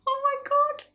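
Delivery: high, whispery gasp of disbelief; shocked whisper. Retold or imitated. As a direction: squeak it under the breath. Retold shock, first take.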